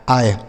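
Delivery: आय said as a clear aay vowel; model sound. Shown as a demonstration. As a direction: isolate आय, a long aay. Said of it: "इसका उच्चारण हमें आय करना है".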